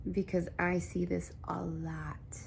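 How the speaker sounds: unvoiced aside, leaning in; hushed confiding aside; whisper. Real, not acted. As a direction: whisper it like a confession.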